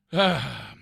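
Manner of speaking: loud, heavy sigh; exasperated sigh. Real, not acted. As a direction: let out a fed-up sigh. Exasperated with the cat.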